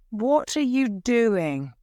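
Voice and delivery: queen angrily confronting her husband; angry. Acted. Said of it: "I asked Darnley angrily".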